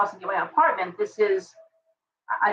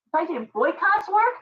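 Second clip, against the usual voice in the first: usual speaking voice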